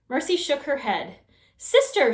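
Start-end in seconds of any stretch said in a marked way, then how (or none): 1.6-2.1 high, loud cry for help; shouting for sister. Acted. Baby calling her sister in a panic, high and loud. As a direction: yell down the hall for her sister. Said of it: "shouted Baby".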